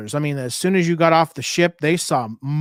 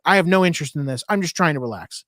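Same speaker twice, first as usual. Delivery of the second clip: mildly stern, a bit fast; lightly firm, shutting the hustler down; stern refusal. Retold or imitated. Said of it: "I finally had to be stern".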